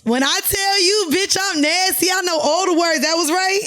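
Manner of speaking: high, excited boast; triumphant, pitched well up; playful bragging. Real, not acted. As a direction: crow about getting it right. Boasting after a correct answer.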